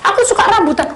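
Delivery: put-on high, loud eager child; a kid chatting happily; child telling the counsellor what she likes; child's voice.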